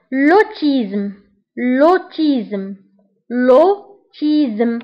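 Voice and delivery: L'autisme drawn out slowly, syllable by syllable; lotizm, spelled out slowly for learners; slow French drill. Shown as a demonstration. Teacher drilling the class on French autism, slow. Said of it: "teacher drills French word".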